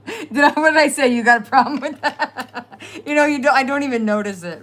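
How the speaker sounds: loud, high New Jersey tough-guy bit; Jersey attitude. Retold or imitated. Joking with chat about sounding Jersey. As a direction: play up the Jersey accent, laughing. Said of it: "I'm so Jersey".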